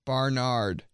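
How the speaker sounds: "Barnard" with bar as first syllable; mispronounced Bernard. Shown as a demonstration. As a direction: open "Barnard" to an ah vowel. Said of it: "Instead of Bernard".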